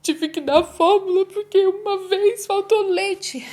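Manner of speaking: high, slow, tearful confession; near tears. Retold or imitated. Mother confessing to the doctor that she used formula, near tears. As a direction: tell the doctor as if about to cry, slow and high. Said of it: "quase chorando".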